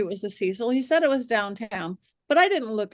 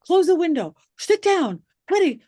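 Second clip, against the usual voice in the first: higher, louder alarmed shout; retold yell; 7 semitones higher, 6 dB louder than usual. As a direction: bark at someone to stop. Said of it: "Zach starts yelling at me".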